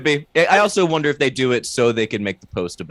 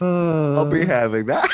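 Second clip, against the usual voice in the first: goblin voice; 5 semitones higher, slower than usual. Retold or imitated. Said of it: "in my goblin voice".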